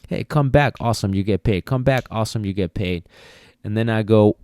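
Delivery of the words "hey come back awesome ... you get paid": cheery recall cue. Shown as a demonstration. Trainer calling the dog back, light and upbeat. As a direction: call the dog back like it's a treat. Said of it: "without ever once putting any little bit of pressure".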